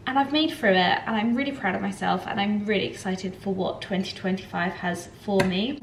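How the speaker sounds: a lump in the throat; frog in throat. Real, not acted. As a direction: voice catching with emotion. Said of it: "a frog in my throat".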